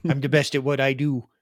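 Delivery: lightly voiced gruff Wolverine; a hint of Wolverine growl; Wolverine impression. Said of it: "decent American accent".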